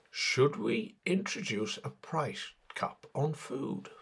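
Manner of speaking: put-on slow posh English accent; lightly voiced posh English lady asking. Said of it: "in a posh English voice".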